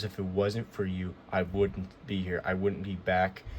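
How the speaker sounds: slow, earnest, heartfelt thanks; mean every word and take it slowly; a lightly voiced sincere wrestler thanking the fans; serious, sincere. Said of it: "R-Truth's very serious".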